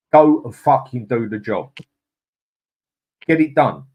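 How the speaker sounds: loud, exasperated demand; angry shout. Real, not acted. Fan yelling at his club's board to sign players. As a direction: bark it out in frustration.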